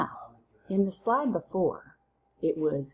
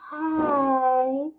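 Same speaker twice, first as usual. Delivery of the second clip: swing jump; 9 semitones higher than usual. Shown as a demonstration. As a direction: leap up on tie like a pinch on the swing. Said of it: "So, ready?".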